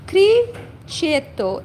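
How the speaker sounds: "criceto" said slowly as kri-che-to; Italian "criceto", careful and slow; slow Italian demo. Shown as a demonstration. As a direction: spell out "criceto" sound by sound.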